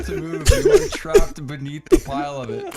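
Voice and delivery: dramatic. Pretend. Dramatic game narration.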